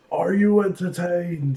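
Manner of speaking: slow, drawn-out theatrical challenge; dramatic movie quote. Acted. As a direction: stretch out the famous line. Acting out the film line.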